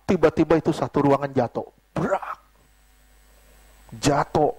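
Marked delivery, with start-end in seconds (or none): 1.9-2.4 sudden high crash noise; imitated crash. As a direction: mimic bodies hitting the floor. (tiruan bunyi brak orang berjatuhan)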